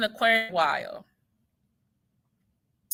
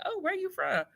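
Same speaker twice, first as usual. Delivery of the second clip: much higher, softer question; New Yorker's voice; 10 semitones higher, 7 dB quieter than usual. Retold or imitated. Imitating a New Yorker asking her origins, higher. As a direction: lightly voice the curious stranger.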